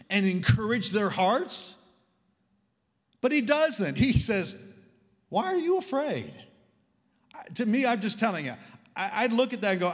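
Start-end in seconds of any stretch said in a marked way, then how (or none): 5.3-6.3 high, loud quoted question, falling at the end; loud challenging question. Retold or imitated. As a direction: throw the question out forcefully. Loud preached quote, puzzled at it.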